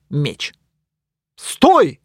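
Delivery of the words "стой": loud high stop; yelled stop. Acted. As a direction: yell after him. Knight orders hero to stop.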